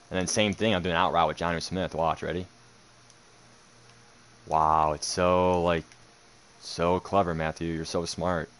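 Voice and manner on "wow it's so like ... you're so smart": sarcastic. Real, not acted. Sarcastic praise of opponent.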